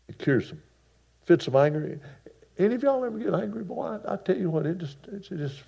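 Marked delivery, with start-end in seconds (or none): 2.6-5.6 high and fast, worked up; excited outburst. Real, not acted. Preacher asking the congregation about anger, high and fast. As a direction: rattle it off, riled up about anger.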